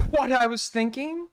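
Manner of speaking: mimicked Canadian accent. Streamer echoing the apology's odd pronunciation, mimicked Canadian accent. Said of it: "trying to talk like that".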